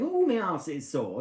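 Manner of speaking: lightly voiced husband moaning; imitating husband. Wife retelling husband's complaint, mild mock moan. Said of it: "So he goes out the caravan saying".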